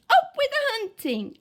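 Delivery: high, loud war cry; rally the pack with a shout; fierce hunting chant =67. A narrator's reading. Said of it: "And they shouted".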